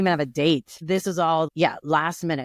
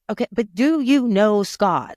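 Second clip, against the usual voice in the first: exasperated parent; 5 semitones higher, 5 dB louder than usual. Retold or imitated. Retold parent interrogating vague teen.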